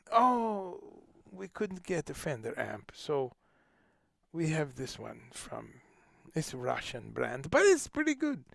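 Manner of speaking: put-on hesitant, excuse-making Italian accent. Italian supplier excusing missing gear to a visiting musician, Italian accent. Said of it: "I do all kinds of accents".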